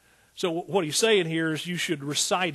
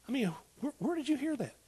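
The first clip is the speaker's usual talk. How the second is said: incredulous; 8 semitones higher, 5 dB quieter than usual. Acted. Incredulous preacher.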